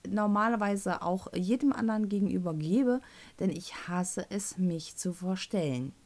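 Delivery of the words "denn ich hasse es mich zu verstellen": ordinary talk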